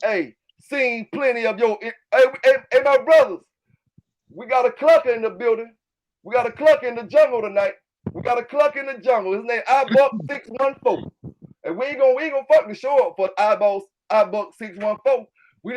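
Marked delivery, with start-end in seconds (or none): 1.8-9.3 calling out. Real, not acted. Calling out a clucker in chat.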